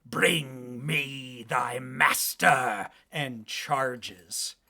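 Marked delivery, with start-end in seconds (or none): 0.1-2.9 slow, drawn-out, shrieking ogre-like monster voice. Voicing a charging monster that shrieks at the players: monster shriek. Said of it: "makes eye contact with you and shrieks".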